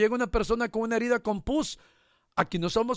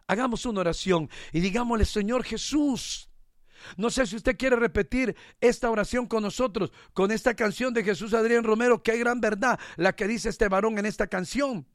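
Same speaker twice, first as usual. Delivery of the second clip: leading prayer. Acted. Preacher leading his congregation in repentance, a fervent pleading prayer. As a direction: pray it aloud for the whole church, humbly.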